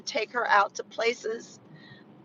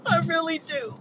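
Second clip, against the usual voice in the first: genuinely tearful; 6 semitones higher than usual. Real, not acted. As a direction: voice rising high into tears. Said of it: "I feel so sad".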